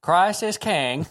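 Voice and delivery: put-on Chinese accent voice. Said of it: "Christ is king in the Chinese voice".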